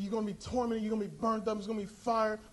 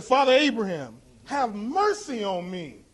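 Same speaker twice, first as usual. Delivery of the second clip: crying rich man; 2 semitones lower, slower than usual. Acted. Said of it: "he cried and said".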